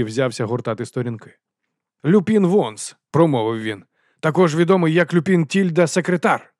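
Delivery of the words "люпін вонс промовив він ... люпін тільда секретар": higher, louder formal reading; Carrot's voice. A narrator's reading. Морква до Вонса, офіційно. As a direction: read out the name officially.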